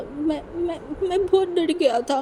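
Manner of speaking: scared and tearful, getting the words out; stammering fear. A narrator's reading. Crying groom admits his fear. (डरते-अटकते, रुक-रुक कर)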